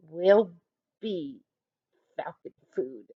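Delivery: low, soft, defeated moan. A narrator's reading. Maria moaning to her teammates, low soft moan. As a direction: let the words sink in despair.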